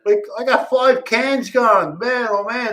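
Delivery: retold shock. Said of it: "And I was there like".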